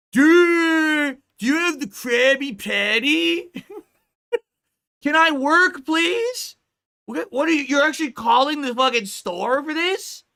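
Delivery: high, pleading mock yell; fed-up fast food worker pleading with callers; exasperated worker. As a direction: beg to be left to work. Mocking frantic worker on phone.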